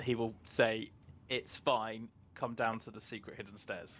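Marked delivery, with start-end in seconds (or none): none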